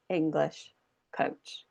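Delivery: slow and low, with "English" and "coach" each given weight; stressed content words. Shown as a demonstration. Coach repeating the content words, slow and stressed. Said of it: "They're the words that we stress".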